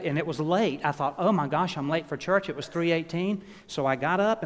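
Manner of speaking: excited rush. Real, not acted. Preacher telling the congregation about waking late, excitedly. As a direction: tumble through the story.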